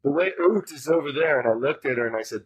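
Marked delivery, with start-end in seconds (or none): 0.0-1.4 Canadian oot. Retold or imitated. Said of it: "And she goes".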